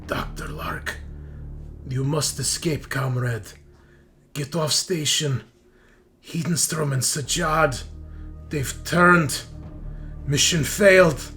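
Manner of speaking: halting radio warning, building in force; comms distress message. Acted. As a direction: deliver an urgent last transmission in separated phrases. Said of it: "She says".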